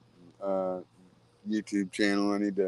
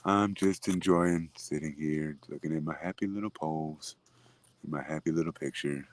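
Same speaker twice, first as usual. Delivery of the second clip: Bob Ross voice; 4 semitones lower than usual. Retold or imitated. Bob Ross happy little phrasing.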